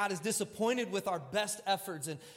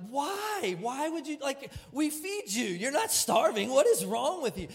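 much higher, rising angry scold; heated scolding; 7 semitones higher than usual. Retold or imitated. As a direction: scold her in a heated rush. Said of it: "I'm angry, I'm heated".

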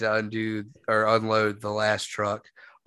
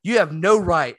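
put-on angry old veteran; 5 semitones higher, 3 dB louder than usual. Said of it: "And he was like".

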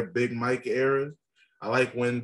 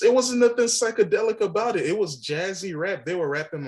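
raised, insistent voice; heated; 8 semitones higher than usual. Real, not acted. Heated rap debate.

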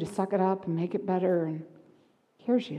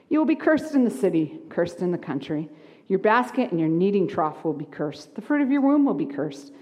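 mock cheerful reading of curses; sunny tone for grim scripture; happy voice. Shown as a demonstration. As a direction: read the curses brightly, as if good news. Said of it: "See how I'm saying it in a happy voice?".

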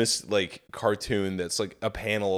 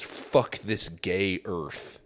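slow, lower, mock-tragic brooding; melodramatic despair; 3 semitones lower, 5 dB quieter, much slower than usual. Mocking the cartoon guy's final thought, slow mock-tragic. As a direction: drag it out like a wounded loner. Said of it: "And then he goes".

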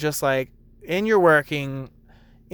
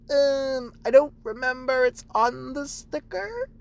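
deadpan reply; 9 semitones higher than usual. Retold or imitated. Barista to confused customer, slow mock-patient high reply. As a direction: answer with teasing patience. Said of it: "I'd be like".

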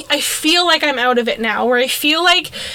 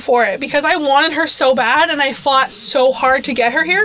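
talking through hiccups; hiccuping mid sentence. Real, not acted. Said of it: "Sorry, I have the hiccups".

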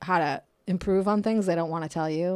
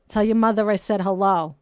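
Mark Wahlberg joke; 6 dB louder than usual. Retold or imitated. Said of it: "That's that Mark Wahlberg joke".

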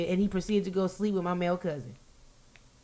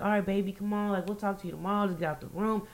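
softly imitated sweet-talk; coaxing; 6 dB quieter, faster than usual. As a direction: gently coax him out, retold lightly. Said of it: "kill him with weakness".

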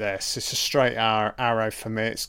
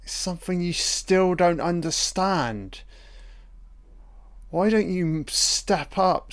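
real rising anger, higher pitched; getting heated; 5 semitones higher than usual. Real, not acted. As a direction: tell him off, getting worked up. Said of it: "I'm getting fucking heated".

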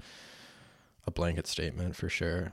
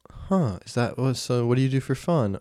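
higher voice for the date; playing his date; 5 semitones higher, 5 dB louder than usual. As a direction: voice the girl across the table. Playing date asking question.

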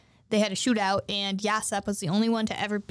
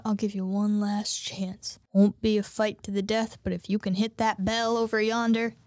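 gunman's ultimatum; 4 semitones lower than usual. Acted. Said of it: "and then he's like".

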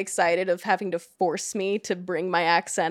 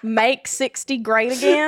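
put-on Southern accent; 3 semitones higher, 3 dB louder than usual. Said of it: "in my thickest, uh, Southern accent".

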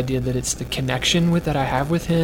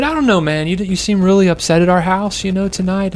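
mock-casual dad; 5 semitones higher, 6 dB louder than usual. Dad voiced in bedtime story.

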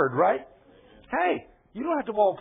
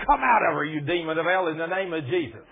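retold shout.

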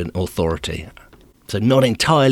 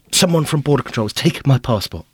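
flustered insisting; 6 semitones higher than usual. Retold or imitated. Insists to official.

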